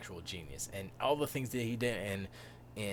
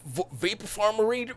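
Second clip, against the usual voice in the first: louder, scolding uncle; a lightly voiced stern uncle; stern Uncle Owen; 6 semitones higher, 4 dB louder than usual. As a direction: order the kid to his chores.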